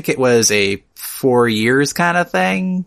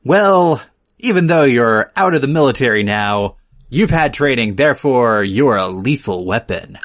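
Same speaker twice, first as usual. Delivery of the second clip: movie judge. Acted. Retelling the film's judge passing sentence, mock judge voice. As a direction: hand down the ruling as a put-on judge. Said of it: "a judge being like".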